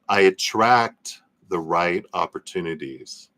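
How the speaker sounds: slow, deliberate affirmation with drawn-out words; guided affirmation. Acted. Streamer leading viewers in a tapping exercise, slow guided affirmation. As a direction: lead them through it phrase by phrase, slowly.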